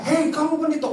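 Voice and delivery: high-pitched imitated call; wife's shout. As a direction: call him out as the wife would. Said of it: "istri saya langsung teriak".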